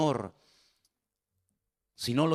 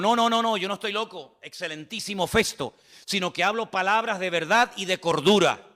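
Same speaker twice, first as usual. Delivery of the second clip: raised, insistent denial of madness; earnest defense; 4 semitones higher than usual. Acted. Paul answering Festo before the king, earnest. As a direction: protest with conviction, lifted voice.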